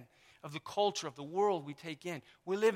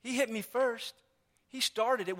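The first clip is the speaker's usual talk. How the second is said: a bit higher, mock whine; childish excuse; 3 semitones higher than usual. Preacher mocking the congregation's excuses, mild whine. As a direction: play the blaming kid lightly. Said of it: "we say that".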